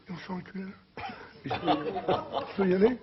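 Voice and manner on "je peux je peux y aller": timid asking voice. Acted. Timid client asks permission.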